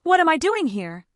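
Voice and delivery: high, incredulous sarcastic repeat. A narrator's reading. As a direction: throw the question back mockingly. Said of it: "she repeated sarcastically".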